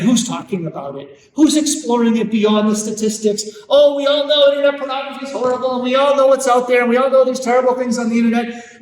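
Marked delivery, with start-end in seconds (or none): 3.7-8.8 quick, breezy, brushing it off; a lightly voiced smug parent rattling it off; complacent parent. Speaker mocks parents who shrug the problem off, fast and breezy.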